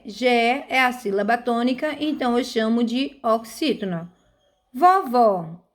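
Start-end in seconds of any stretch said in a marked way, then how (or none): 4.7-5.6 Vovó with a strong final VÓ; teacher's demo, VÓ stressed in Vovó; stressed last syllable. Shown as a demonstration. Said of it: "vó é a última sílaba".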